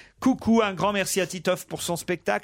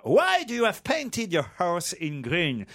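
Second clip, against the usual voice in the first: mock English accent; slower than usual. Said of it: "il faut savoir bien faire l'accent anglais".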